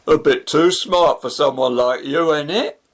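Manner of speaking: a mocking, taunting jibe with a rise on the end; sarcastic sneer. Rooksby taunting Shafi about his smart job, snide. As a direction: rub it in, smug and snide.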